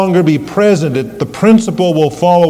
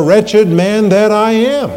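cry of anguish; 7 semitones higher, 4 dB louder, slower than usual. Retold or imitated. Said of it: "It is a cry of anguish".

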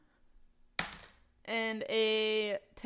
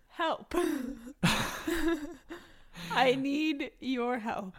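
a mock monkey cry, pitched higher; monkey call; 5 semitones higher, slower than usual. Captive hamming up a monkey scream to summon help. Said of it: "In monkey".

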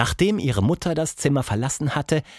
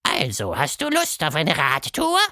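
casual snort; 2 semitones higher than usual. Acted. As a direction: toss it off casually. Monster speaks.

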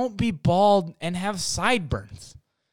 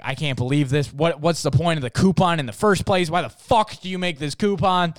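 mom yelling; 3 semitones higher, 5 dB louder than usual. Retold or imitated. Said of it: "my mom is still, like, yelling".

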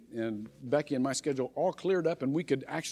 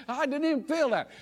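put-on excited girl; 9 semitones higher than usual. Girl brushes off the hit.

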